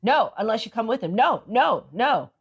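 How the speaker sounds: imitating a cabbie's insistent refusal; mock-stubborn, each "no" swooping in pitch; retold refusal.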